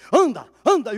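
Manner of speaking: loud, urgent command to walk; loud healing command; commanding shout. Retold or imitated. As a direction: order the boy up on his feet. Pastor commands boy to walk.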